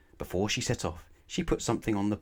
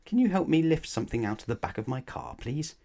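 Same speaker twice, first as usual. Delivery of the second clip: high pleading ask; 8 semitones higher than usual. Acted. Miss Greedy asks for help.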